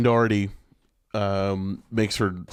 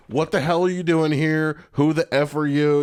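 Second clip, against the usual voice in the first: mock rough pilot; 4 semitones higher than usual.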